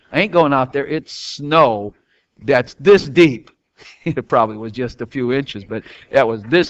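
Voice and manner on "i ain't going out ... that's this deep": put-on child's refusal.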